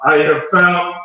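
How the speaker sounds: lightly put-on Russian accent, triumphant; a hint of Russian accent announcing a discovery; mild Russian-accented eureka. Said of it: "his Russian accent".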